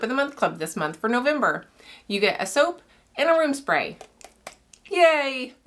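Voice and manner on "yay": excited cheer. Real, not acted. Cheering soap club announcement.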